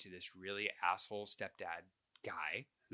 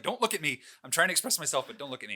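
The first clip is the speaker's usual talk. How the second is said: put-on higher, louder bratty kid protest; twelve-year-old boy; 4 semitones higher, 5 dB louder, faster than usual. Boy telling his mom not to look at him, bratty. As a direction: play the squirming preteen. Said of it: "twelve-year-old boy".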